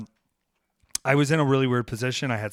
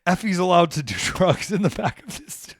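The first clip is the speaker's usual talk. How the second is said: mock yell; 6 semitones higher, 4 dB louder than usual. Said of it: "and they're yelling".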